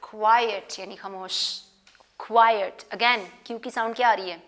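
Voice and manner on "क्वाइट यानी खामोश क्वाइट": "क्वाइट" like a teacher calling for silence, a touch louder; light teacher shush on "क्वाइट"; teacher hushing. Retold or imitated. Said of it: "teacher कहती है ना क्वाइट".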